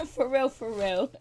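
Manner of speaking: loud, drawn-out words after laughing; through laughter. Real, not acted. Reviewer amused by the unmarried couple's quarrel, through laughter. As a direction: say it slowly, coming out of a big laugh.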